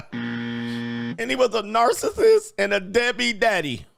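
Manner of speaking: drawn-out sarcastic repeat, slow; slow mock sarcasm. A vlogger mocks a woman's complaint, slow and sarcastic. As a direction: drag it out, mocking the complaint. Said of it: "This is how you would do if you heard it".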